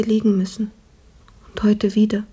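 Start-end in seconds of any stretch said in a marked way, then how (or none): 1.5-2.2 weak sick whisper. Acted. Sick maid, weak in bed.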